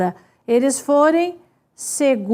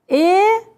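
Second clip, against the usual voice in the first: Egoísta read with the weight on í, a little higher; stressed syllable shown; 3 semitones higher than usual. Shown as a demonstration. Teacher showing students where Egoísta carries its stress, leaning on the í. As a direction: lean on the í of Egoísta, reading it out for the class. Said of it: "Eu vou ler assim, ó".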